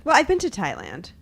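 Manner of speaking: offhand, as if it's just a thing; casual, no big deal. Real, not acted. Answering the host on tropical places visited, offhand. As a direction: toss it out as an obvious fact. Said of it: "you say that like it's just a thing".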